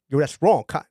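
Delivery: attempted Brooklyn accent. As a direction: imitate mom's Brooklyn accent, badly. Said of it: "in, in her accent".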